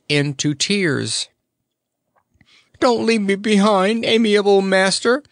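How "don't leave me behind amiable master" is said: much higher, louder, tearful plea; sobbing plea. A narrator's reading. Happy Toko begging his master not to leave, tearful. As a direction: beg through tears. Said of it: "he sobbed disconsolately".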